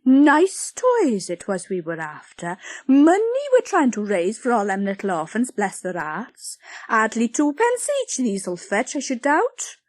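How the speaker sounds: huffy busybody; offended. Acted. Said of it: "offended now".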